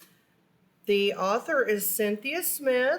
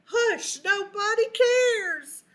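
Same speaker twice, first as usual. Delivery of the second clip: dismissive classmate; 11 semitones higher, 3 dB louder, slower than usual. Acted. Classmate voiced telling him off.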